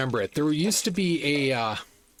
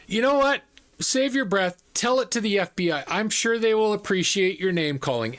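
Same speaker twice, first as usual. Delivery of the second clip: higher-pitched dismissive send-off; retold taunting comeback; 5 semitones higher than usual. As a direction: brush off an angry caller tauntingly. Retold comeback to angry scammer.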